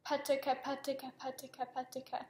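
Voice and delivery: Patika in even beats; rhythmic Patika drill. Shown as a demonstration. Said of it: "I'm gonna have you say".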